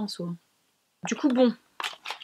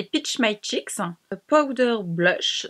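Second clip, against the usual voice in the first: drawn-out English product name in a French speaker's accent; bad English accent; much slower than usual. Shown as a demonstration. Vlogger presenting blush names to viewers, hammed-up English accent. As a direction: lay on the English accent, slowly. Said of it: "mon accent anglais de merde".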